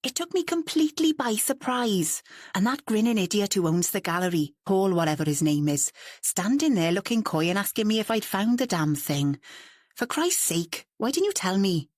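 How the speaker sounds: stinging exasperation. Acted. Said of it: "his exasperation was clear and stinging".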